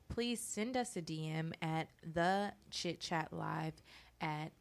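polished, professional ad read; sponsor voice. Real, not acted. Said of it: "I gotta get my sponsor voice like you. You are so professional".

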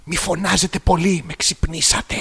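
hushed complaint. Acted. Listener Ema telling noisy hosts they woke her, hushed complaint. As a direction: complain as if just woken. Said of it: "η Έμα".

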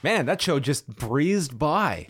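understated dry sarcasm; sarcastic. Real, not acted. Co-host claiming the long show just breezed by, sarcastic. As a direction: feign amazement at how time flew, drily. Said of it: "I sense some sarcasm in your voice".

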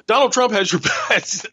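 straight face cracking into a laugh on "best"; real laugh breaking through a deadpan line; breaking into laughter. Real, not acted. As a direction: try to stay deadpan but laugh on "your best". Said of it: "try to say it with a straight face".

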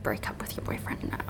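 very soft, whispered mock order; mock hushed demand. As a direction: whisper it as a pretend quote. Acting out an unlikely demand.

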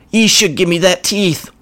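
goblin muttering. Acted. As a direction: mutter it resentfully. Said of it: "as he muttered".

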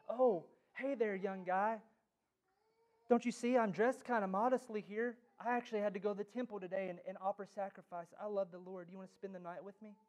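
lightly voiced coy seductress; seductive woman. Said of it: "woman of Proverbs nine who says".

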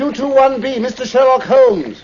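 high, loud address shouted up to the cabbie; called out address. Acted. Doctor shouting the address up to the cab driver. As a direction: call the address over the clatter.

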